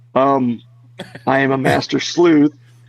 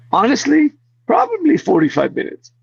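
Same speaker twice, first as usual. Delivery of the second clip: higher-pitched, badly faked German accent; terrible German accent; 11 semitones higher than usual. Focus puller answering his phone on set, terrible German accent. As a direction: imitate a colleague with a bad German accent. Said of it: "It's a terrible German accent".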